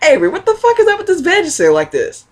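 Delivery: high, loud, angry mom voice; playing mom calling her kid to account; mom yelling. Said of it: "she was like".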